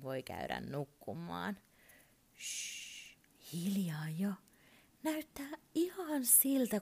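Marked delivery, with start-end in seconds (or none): 2.4-6.8 put-on breathy hush for a sleeping child; hushed whisper. A narrator's reading. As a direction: whisper so nobody wakes. Narrator hushing as child falls asleep.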